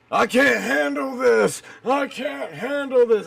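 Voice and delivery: high, whining mockery of a quitter; whiny quitter voice. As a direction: whine it like someone giving up.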